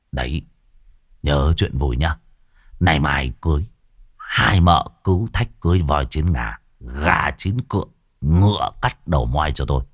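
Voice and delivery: low, sly teasing voice; lightly voiced cunning old man. A narrator's reading. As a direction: tease them with a grin. Old man teases the wives.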